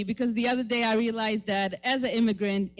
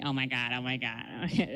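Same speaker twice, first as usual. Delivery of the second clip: put-on Valley girl voice; 10 semitones lower, 7 dB quieter than usual. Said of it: "White Valley voice girls sound to me".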